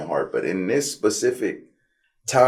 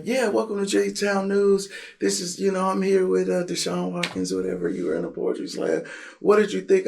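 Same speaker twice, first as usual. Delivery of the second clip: much higher bubbly reporter voice; young reporter interviewing him, done much higher; girl reporter impression; 12 semitones higher than usual. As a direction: play the chirpy news girl with the mic. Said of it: "the girl comes and she, she's like".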